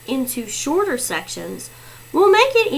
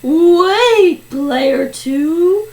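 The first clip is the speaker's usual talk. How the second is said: urgent protest; 3 semitones higher, 5 dB louder, much slower than usual. Acted. Players stop player two's last guess.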